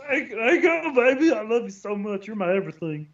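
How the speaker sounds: high-pitched, sugary gift-giving voice; silly high voice. Pretend. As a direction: chirp it out sweet and eager. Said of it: "Why are we talking like that?".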